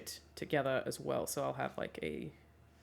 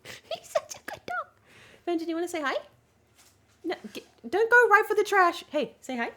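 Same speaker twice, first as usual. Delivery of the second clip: much higher sing-song voice for the dog; 13 semitones higher, 5 dB louder than usual. Real, not acted. Talking to her dog.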